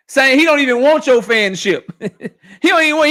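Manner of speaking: talking through laughter; laughing. Real, not acted. Streamer laughing at a rival's British comments while talking. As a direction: laugh it out while mocking him.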